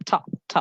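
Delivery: ঠ as a short puffed T sound; aspirated consonant. Shown as a demonstration. Teacher isolating the sound for students, breathy burst on ঠ. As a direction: isolate ঠ, all breath and hardly any voice. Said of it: "যদি স্পষ্টত ঠি শোনেন".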